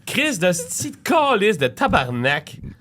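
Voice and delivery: high, slow burst of Québécois swears; explosive swearing. Shown as a demonstration. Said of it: "you put them all together".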